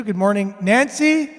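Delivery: talking through a tube; echoing mic. Real, not acted. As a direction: voice with a hollow echo. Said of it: "I'm echoing".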